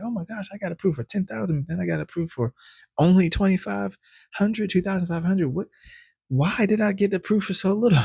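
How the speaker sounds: retelling confusion over a smaller credit limit; baffled disbelief. Retold or imitated. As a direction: squeal it like it makes no sense. Baffled by the low second approval.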